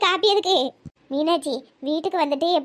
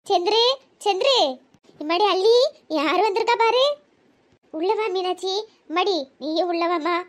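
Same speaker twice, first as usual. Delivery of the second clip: loving call; 3 semitones higher than usual. Acted. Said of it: "ரொம்ப அன்பா கூப்பிடுதில".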